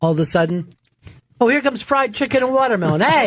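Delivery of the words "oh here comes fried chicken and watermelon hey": high, quick mock welcome; mock cheery greeting. Greeting someone nicknamed after food, mock cheery. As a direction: hail an arriving buddy with playful excitement.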